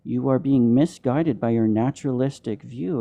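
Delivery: ordinary delivery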